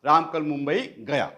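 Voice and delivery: राम पर ज़ोर, वाक्य गिरते सुर में ख़त्म; stress on Ram. Shown as a demonstration. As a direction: press on "राम", end with a falling tune. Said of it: "शब्दों पर जोर देकर बोलना". ("राम" शब्द पर ज़ोर देकर)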